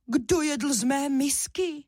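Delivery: a small cub asking, puzzled; little bear voice. A narrator's reading. Little cub asks who ate from his bowl, high and slow.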